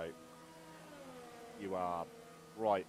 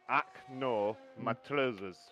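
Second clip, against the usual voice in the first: Scottish accent demo; slower than usual. Shown as a demonstration. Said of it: "the best way to try and learn how to speak Scottish".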